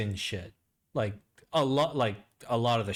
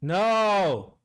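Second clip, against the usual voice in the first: shocked; 9 semitones higher, 7 dB louder than usual. Real, not acted. Shocked at sad news.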